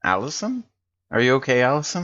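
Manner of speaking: high, rising call of her name. Acted. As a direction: call her back to the moment, a little worried.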